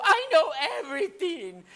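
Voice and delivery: put-on high-pitched tearful child; mock crying. Child confesses to Grandma, high mock-tearful voice. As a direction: keep the put-on wail going, high. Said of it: "I started crying and crying and crying".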